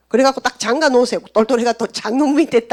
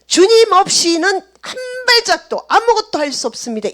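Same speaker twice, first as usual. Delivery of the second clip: earnest confession; 8 semitones higher, 3 dB louder than usual. Shown as a demonstration. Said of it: "이 고백이".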